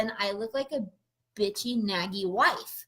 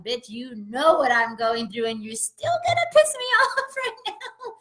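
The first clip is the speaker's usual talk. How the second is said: louder mock fury breaking into a laugh; retold angry rant; 4 semitones higher, 5 dB louder than usual. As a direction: replay your anger, laughing at the end. Quoting herself angry at him.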